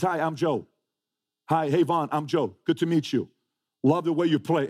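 a hint of an overly nice newcomer; friendly polite intro. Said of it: "Who talks like this?".

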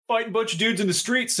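high mock dictation; lightly voiced voice command; dictating a tweet. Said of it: "if I could just be like".

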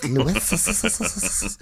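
"Lewis" with a long hissing trail of S's. Retold or imitated. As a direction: drag out the final S of "Lewis" into a long hiss. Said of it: "there's, like, a trail of S's".

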